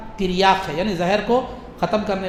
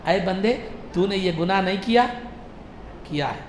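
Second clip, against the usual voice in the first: softer, private questioning; discreet questioning; 5 dB quieter than usual. Retold or imitated. Allah privately questions a servant about sins, discreet and softened. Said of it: "یہ پوشیدہ طور پر".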